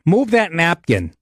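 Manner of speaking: slow, curt order again. Retold or imitated. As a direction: imitate the waitress, flat and bossy. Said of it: "Just like that".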